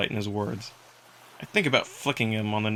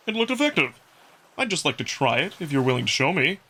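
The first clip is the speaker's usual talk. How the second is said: Amicus the wolf, a touch higher and brighter-timbred, easy and friendly; 3 semitones higher than usual. Acted. Wolf Amicus catching his breath after the race, playful role voice.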